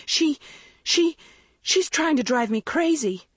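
high, outraged accusation; wild rage. A narrator's reading. Girl accusing sister to mother, enraged. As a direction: spill it out, spiking on each SHE. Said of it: "Maggie's whole body trembled in rage".

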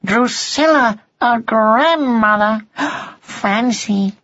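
high, slow wonder; amazed. A narrator's reading. Son hears friend will be grandmother, amazed. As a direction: marvel at it in a young voice. Young cat marvels at news.

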